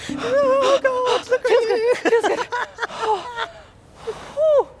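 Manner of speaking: gasping yelps, high and loud; shrieking from the icy sea; shock of cold water. Real, not acted.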